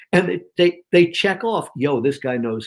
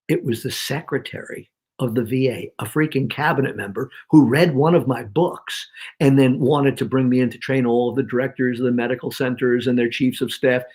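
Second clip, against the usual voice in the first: lower, played-down name drop; elegantly understated; 4 semitones lower than usual. Shown as a demonstration. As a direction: drop the credential in passing, without emphasis. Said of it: "that I'm gonna do elegantly".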